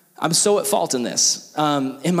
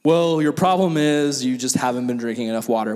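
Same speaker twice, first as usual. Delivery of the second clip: lightly voiced medic, pitched lower; infirmary guy; 5 semitones lower than usual. Infirmary worker advising a camper, mildly put-on authority. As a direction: give a stock diagnosis in a lower mock voice. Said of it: "and the guy's like".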